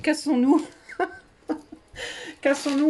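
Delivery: half-laughing mock panic, pleading to flee; panicked France. Vlogger voices France fleeing the visitors, mock panic. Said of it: "Elle se dit".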